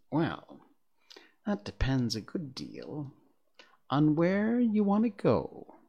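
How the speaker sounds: lazy, drawling cat voice; a grinning cat, unhurried and aloof; snooty bored cat. Acted. The Cheshire Cat voiced in story.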